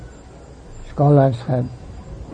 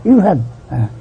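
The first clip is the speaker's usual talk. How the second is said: put-on boy protesting his innocence to his mother; frantic child denial; 6 semitones higher than usual. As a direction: insist over and over that Gopal ate it. Boy denies eating the offering.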